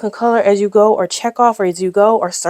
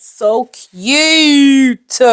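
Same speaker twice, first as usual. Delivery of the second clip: cooing gush; 6 semitones higher, 4 dB louder than usual. Real, not acted. Gushing over bows.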